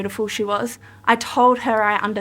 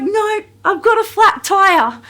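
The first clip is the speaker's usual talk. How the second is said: imitating Kate; 9 semitones higher, 5 dB louder than usual. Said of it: "She's like".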